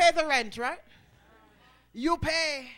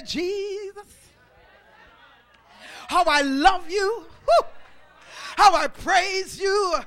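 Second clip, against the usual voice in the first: praise shout; 4 semitones higher, 8 dB louder, slower than usual. Acted. Preacher shouts praise aloud.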